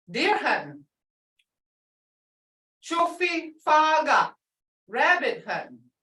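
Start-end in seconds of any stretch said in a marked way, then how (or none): 2.8-4.4 Chofi faga with faga falling; tone demo. Shown as a demonstration. Teacher giving rabbit hunting in Muscogee. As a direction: let faga drop after Chofi. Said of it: "But you can't say".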